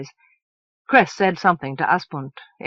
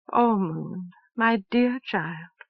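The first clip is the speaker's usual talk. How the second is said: slow and sorrowful; slower than usual. Acted. Elsevier to Moon before a hard truth: slow sorrowful tenderness. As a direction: soften with grief for the child. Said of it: "she said with inexplicable sorrow".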